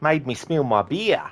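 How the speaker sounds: high, slow mock Australian complaint; a bystander moaning over his spilled beer; grumbling NPC accent. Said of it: "a bit more British".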